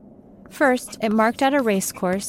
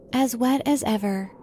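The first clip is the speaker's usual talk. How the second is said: melancholy. A narrator's reading. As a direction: sigh it out, a little miserable. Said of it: "in a melancholy tone".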